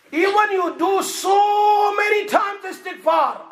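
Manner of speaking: high, loud and slow sermon cry; slow thundering warning. Acted. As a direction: drag out every word as a warning. Preaching at full force.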